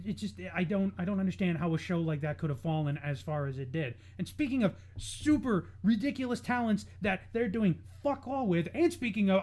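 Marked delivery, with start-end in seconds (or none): none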